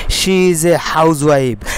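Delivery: slow dictation. Shown as a demonstration. Teacher dictates model sentence.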